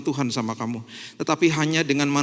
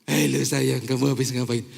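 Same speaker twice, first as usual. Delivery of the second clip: put-on baby talk; 5 semitones lower than usual. Shown as a demonstration. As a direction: coo at her like a toddler. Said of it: "nggak bisa pakai sama istri saya".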